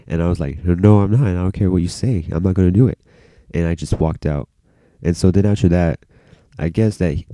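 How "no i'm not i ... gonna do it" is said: retold defiant refusal.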